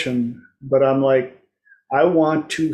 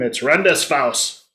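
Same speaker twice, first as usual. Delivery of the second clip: "Rendezvous" in a harsh mock-German accent; hard German-accented "Rendezvous"; German pronunciation. Shown as a demonstration. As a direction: say "Rendezvous" as German, sounding every consonant. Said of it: "if you say it in German".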